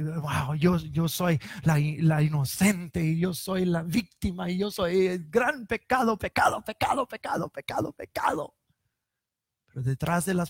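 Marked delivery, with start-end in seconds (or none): 0.0-8.6 falsely innocent voice that fades to a whisper; mock her playing the victim, then whisper; preacher parodying the wife as victim; mock self-righteous accuser. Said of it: "comenzó a denunciarlo delante de todos".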